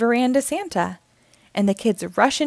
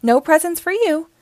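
mild scold; 8 semitones higher, 4 dB louder than usual. Acted. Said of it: "she scolds".

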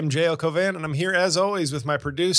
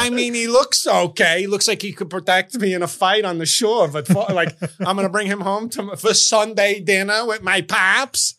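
mock Italian American dater; 3 semitones higher than usual. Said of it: "They'd be like".

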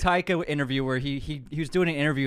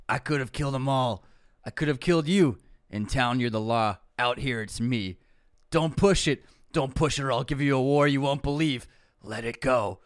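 Rambo quote. Retold or imitated. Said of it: "you went a little Clint".

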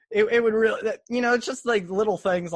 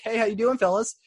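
light, higher casual greeting; mock everyday voice, a bit raised; normal unmasked voice; 5 semitones higher than usual. Host imitating the actor unmasked, lightly chipper normal voice. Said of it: "then they have your voice".

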